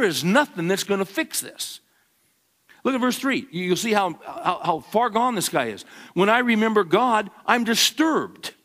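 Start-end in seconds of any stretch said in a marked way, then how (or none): 6.1-8.5 the real, uncomfortable answer; troubled confession. Shown as a demonstration. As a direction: read it as an honest, troubled cry. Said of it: "what are you supposed to say".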